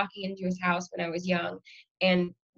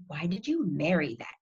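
put-on slow, grave child's question; measured, solemn delivery; very serious; 2 semitones lower, 3 dB quieter, slower than usual. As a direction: imitate a small child asking in all seriousness. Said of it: "turns to me very serious".

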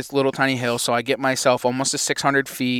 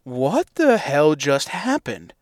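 stunned disbelief; slower than usual. Retold or imitated. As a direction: let it sink in slowly. Stunned after the shot.

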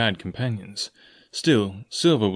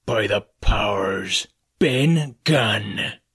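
roar; much slower than usual. Acted. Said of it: "roared Silver".

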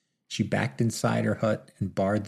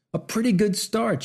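shouted punchline; 11 semitones higher than usual. A narrator's reading. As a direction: yell the punchline to the crowd. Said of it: "shouted the man".

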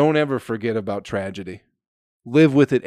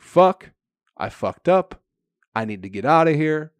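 panicked rat; 5 semitones higher, 3 dB louder than usual. Retold or imitated. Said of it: "The rat's like".

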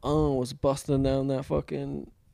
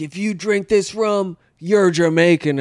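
imitating a Jamaican; 5 semitones higher, 8 dB louder than usual. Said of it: "the Jamaicans are like".

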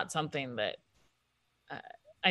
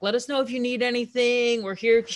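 overly eager manager voice; sudden eager helpfulness, higher; mock eager; 6 semitones higher, 5 dB louder than usual. Mocking the manager's eager switch.

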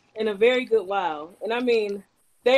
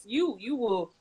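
mock preacher; 3 dB louder than usual. Mock preaching demands praise.

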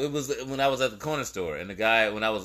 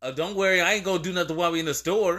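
fast, higher, laughing mock of the guy; laughing through the quote; 5 semitones higher, faster than usual. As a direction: quote him while cracking up. Quoting the hostile guy.

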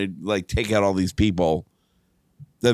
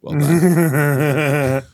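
laughing, louder praise; 5 semitones higher, 5 dB louder than usual. Real, not acted. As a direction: crack up while praising.

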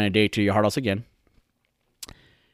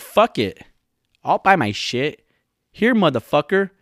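high, louder mock defiance; fed-up retort; 7 semitones higher, 4 dB louder than usual. Podcaster imitating the woman billed for dinner, fed up. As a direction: toss it back indignantly, pitched up.

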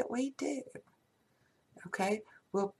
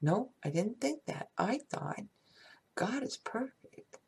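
softer, gentle mantra of love; soft affirmations. Shown as a demonstration. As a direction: murmur it tenderly to yourself. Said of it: "You need to say".

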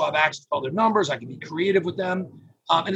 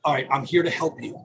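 caring phone voice; 3 semitones lower than usual. Shown as a demonstration. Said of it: "with my tone, my intonation".

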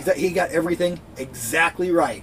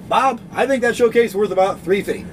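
laughing through a mock game show bid; half-laughing contestant bid; 5 semitones higher, 3 dB louder than usual. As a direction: bid to Bob while laughing. Contestant bidding to Bob.

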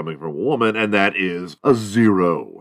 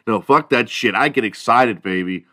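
usual speaking voice

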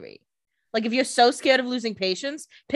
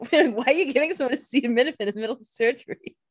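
incredulous; 4 semitones higher, faster than usual. Pretend. Mocking surgeons' confused question.

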